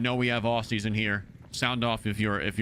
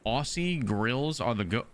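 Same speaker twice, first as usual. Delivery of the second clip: puzzled reread; 3 semitones lower, slower than usual. Retold or imitated. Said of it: "What are you saying to me?".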